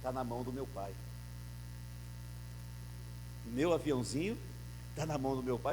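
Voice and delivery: put-on a small boy softly trusting his father; tender child's reply. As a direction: say it with a child's quiet certainty. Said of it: "com um sorriso".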